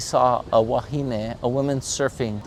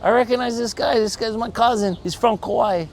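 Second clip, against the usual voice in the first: urgent shout; 10 semitones higher than usual. Acted. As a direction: shout them down, then vouch for him. Stranger halts the stoning crowd.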